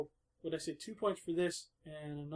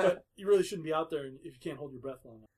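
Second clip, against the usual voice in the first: put-on light Brooklyn accent, a bit louder; 5 dB louder than usual. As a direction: keep the Brooklyn surfer twang going. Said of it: "he's saying it in a Brooklyn accent".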